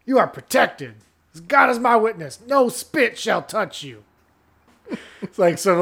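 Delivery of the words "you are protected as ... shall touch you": raised, emphatic pledge of a pitchman; hammed-up casino spokesman vowing; mock spokesman. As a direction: swear it like a hokey ad man.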